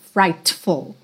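"frightful" with the T barely touched; soft T in frightful. Shown as a demonstration. Teacher showing the relaxed T in "frightful". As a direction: let the T in "frightful" fade. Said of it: "você não precisa marcar".

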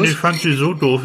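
talking with a mouth full. Real, not acted. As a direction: speak around a mouthful of food. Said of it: "ich hab den Mund voll".

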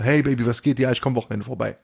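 mock cheerful hey Baby; euphoric. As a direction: bounce it up like a keen lover. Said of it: "diese euphorische Rolle". (gespielt euphorisch zur zweiten Freundin am Telefon)

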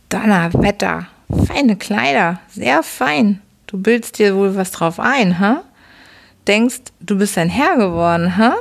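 put-on gruff old father. Drunken father mocks his son.

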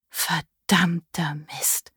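hissed under her breath, slow and unvoiced; a shocked whisper so the guests won't hear; whispered curse. Leona curses to herself, whispering.

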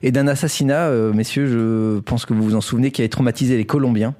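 measured storyteller's news read; scripted story narration. Acted. Host tells co-hosts a Colombian crime story, scripted narration. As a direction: present it like a prepared radio chronicle.

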